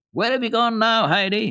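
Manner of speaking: high, loud call across the slope; boy calling crossly into the distance; calling out, almost angry. A narrator's reading. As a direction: shout for her, half cross. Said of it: "he called, uh, almost angrily".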